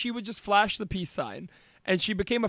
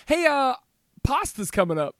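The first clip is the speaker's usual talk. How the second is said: booming sing song welcome; 5 semitones higher, 4 dB louder than usual. Pretend. Announcing pasta like a host.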